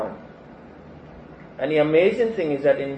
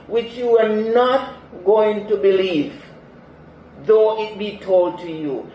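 voice of God; 4 semitones higher, 4 dB louder than usual. Acted. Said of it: "So God is answering".

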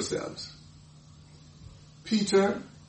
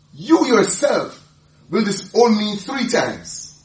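slow solemn; 5 semitones higher, 5 dB louder, slower than usual. Acted. Jesus' solemn prophecy.

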